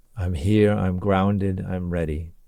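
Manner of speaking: deep, reverberating, unforced, grounded low voice. Mid-video, showing being grounded and ready: low resonant tones. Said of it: "you can hear the, the reverberation of those low tones".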